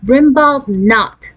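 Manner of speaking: "Brimbald not" drawn out slow and pitched high; emphatic. A narrator's reading. Twin sister refusing to ask for a pet, emphatic "Brimbald not". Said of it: "Deanie received an emphatic".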